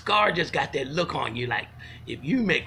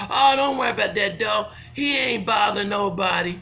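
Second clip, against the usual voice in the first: louder, higher dismissive owner's call; imitated reassuring owner; 4 semitones higher, 4 dB louder than usual. Dog owner to arriving visitor, mock reassurance. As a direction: lightly voice an owner waving off worry.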